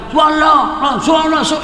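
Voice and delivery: high-pitched chorus of shouts; imitated crowd yelling. Congregation yelling at an imam's mistake, mock shouting. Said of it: "teriak semua".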